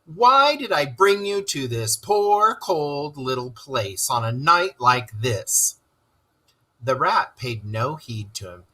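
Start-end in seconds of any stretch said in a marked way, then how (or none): 0.0-5.8 high, pleading lament, slowing to the end; dismal. Acted. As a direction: wail it in self-reproach. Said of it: "he cried dismally".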